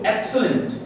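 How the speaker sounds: pleased exclamation; admiring compliment; happy praise. Shown as a demonstration. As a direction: approve with delight. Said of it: "जब तुम खुश होते हो".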